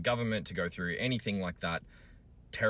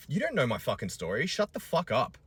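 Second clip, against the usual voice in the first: rising, louder snap at the trolls; angry retort; 6 semitones higher, 4 dB louder than usual. Real, not acted. Father snapping back at commenters, high angry shout. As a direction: shout them down, high and furious.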